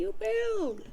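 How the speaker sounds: high, thin crone voice; old nana's reveal. Acted. Nana telling John to build, high and crone-like. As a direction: deliver it like a sly grandma. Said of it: "And she says".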